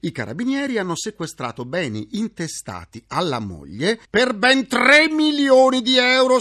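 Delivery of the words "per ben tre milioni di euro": loud proclaiming. Acted. Proclaiming the seized sum.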